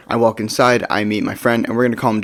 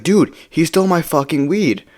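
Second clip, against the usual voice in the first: higher, mildly outraged imitation; indignant protest; 5 semitones higher than usual. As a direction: imitate a friend justifying himself, pitched up. Friend justifies himself to the teller.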